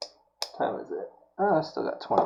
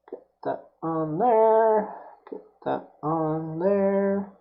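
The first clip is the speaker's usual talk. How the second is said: slow, higher sing-song coax; 5 semitones higher, slower than usual. Real, not acted. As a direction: croon it at the wire. Coaxing the wire into place.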